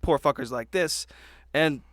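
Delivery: ordinary delivery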